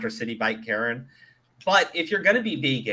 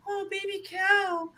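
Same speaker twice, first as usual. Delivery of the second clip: mocking whiny vegan. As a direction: squeal it like an outraged vegan. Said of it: "they're like".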